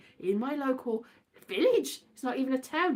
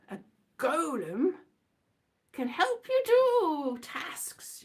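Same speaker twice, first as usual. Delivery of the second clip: whispered aside; 3 semitones higher, slower than usual. Acted. Whispered aside about golems.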